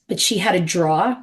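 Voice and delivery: New York accent, drawer said as "draw" with no r. Real, not acted. Telling the host about her aunt's drawer, New York accent. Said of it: "you just heard my New York accent".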